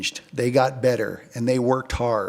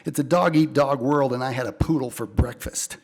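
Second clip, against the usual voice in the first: hard-boiled detective narration; deadpan film noir voiceover. Acted. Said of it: "I narrate my stories in a film noir style".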